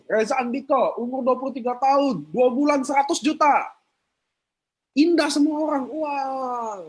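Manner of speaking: mock amazement at a young man's big earnings; impressed onlookers. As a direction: play the people who are dazzled, marvelling. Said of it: "Ya kan orang gini".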